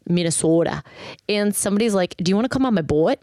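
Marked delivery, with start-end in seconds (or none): 0.1-0.8 Minnesota with a rounded local O; thick Minnesotan accent. Retold or imitated. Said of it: "the accent was so thick". 2.2-3.2 quick Minnesotan invite, boat stretched toward two syllables; thick Minnesotan accent. Retold or imitated. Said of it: "the accent was so thick".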